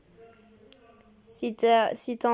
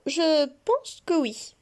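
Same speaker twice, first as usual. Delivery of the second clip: slow breathy aside, drawn out; sarcastic whisper; 4 semitones higher, much slower than usual. Acted. Teasing Kéra about being awake, in a slow whisper. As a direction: whisper the punchline slowly, dry and smug.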